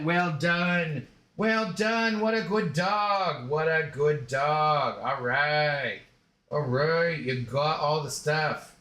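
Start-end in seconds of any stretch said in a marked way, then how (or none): 0.0-2.2 higher, bright praise for a good dog; praising the dog. Real, not acted. Owner praising his dog after a catch, warm and high. 2.2-5.0 slow, drawn-out praise; tender praise. Real, not acted. Owner praising his dog, slow and tender.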